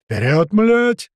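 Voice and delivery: loud, drawn-out shout of a charge; a slow, loud rallying bellow from the back; battle shout. Acted. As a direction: yell the men forward, slow and loud. Shout from behind on deck.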